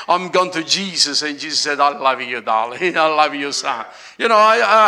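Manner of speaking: ordinary delivery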